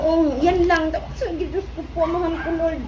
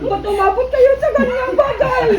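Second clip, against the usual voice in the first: laughing in disbelief; 4 semitones higher than usual. Real, not acted. Mother laughing repeated clip.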